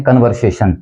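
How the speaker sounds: कन्वर्सेशन with short first vowel, kun-var-say-shun; common mispronunciation. Shown as a demonstration. Teacher showing what we commonly hear, कन्वर्सेशन as kun-var-say-shun. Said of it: "जिसका हम उच्चारण करते हैं".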